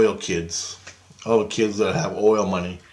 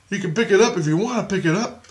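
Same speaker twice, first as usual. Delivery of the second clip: Jesus encouraging; 10 semitones higher than usual. Retold or imitated. Jesus voiced in dream story.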